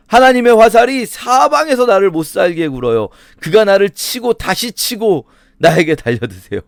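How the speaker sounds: impassioned preacher voicing Job's complaint; aggrieved Job. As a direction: plead Job's case with rising force. Voices Job's lament at full force.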